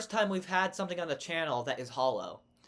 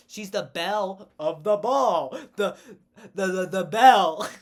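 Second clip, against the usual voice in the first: emphatic; 4 semitones higher, 10 dB louder than usual. Real, not acted. Hamming up her own pun.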